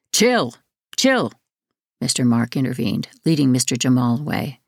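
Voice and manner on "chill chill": urgent. A narrator's reading. Staff intervening in a fight.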